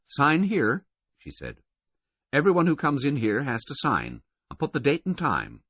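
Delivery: high female voice, flat and dismissive; flat woman. A narrator's reading. Governess sizing up the attendant, flatly dismissive. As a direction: label him and dismiss him.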